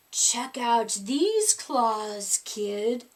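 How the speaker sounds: slow, low monster rasp. A narrator's reading. Third monster under the bed rasps slowly at the kid. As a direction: drag the words out in a low rasp. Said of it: "a third voice ... rasped".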